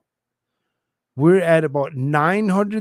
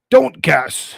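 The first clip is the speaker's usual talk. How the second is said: louder firm order; stern; 7 dB louder than usual. Acted. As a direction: cut them off sharply. Lawyer cuts in sharply.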